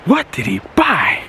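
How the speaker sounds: wondering aloud, rising then drawn out; curious viewer voice. Pretend. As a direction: play a puzzled viewer asking twice. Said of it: "to get you guys wondering".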